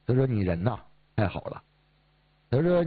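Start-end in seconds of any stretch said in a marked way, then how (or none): 0.3-1.6 put-on lower, softening old patient's praise; gently praise, imitating a grateful old man; imitated grateful praise. Old patient thanking his doctor at night, imitated warm praise. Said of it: "就表扬我".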